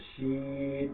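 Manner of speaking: শিন with a palatal sh, held long; palatal shin. Shown as a demonstration. Teacher models শিন with a long palatal sh. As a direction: draw out শিন with a clear sh. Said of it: "তালে বস দিয়ে আমরা".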